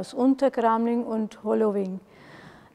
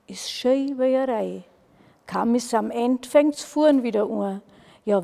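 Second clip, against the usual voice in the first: measured dialect poem reading; poem recitation; 3 dB louder than usual. Acted. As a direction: recite the verse line by line, drawing out key words. (Gedichtvortrag in Egerländer Mundart)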